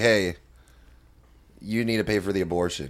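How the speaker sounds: kind of bitchy, snippy tone. Retelling what a girl said when she called: imitating a bitchy tone. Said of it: "in, like, kind of a bitchy tone".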